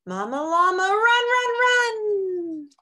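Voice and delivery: loud, high, urgent cry for mama; mock panicked call. Baby llama calls for mama.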